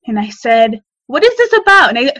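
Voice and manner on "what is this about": higher-pitched insistent question; retold alarmed demand. Sister questioning state caller on the phone, retold alarmed demand. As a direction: demand an explanation, retelling it.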